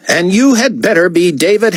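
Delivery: high, demanding diva voice; haughty artiste. A narrator's reading. Artiste answering David's call, haughty demand.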